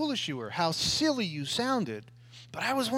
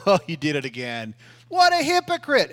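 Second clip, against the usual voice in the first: Satan's accusation; 8 dB louder than usual. Acted. Pastor voicing Satan taunting a believer, mocking sneer. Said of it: "when Satan tells you".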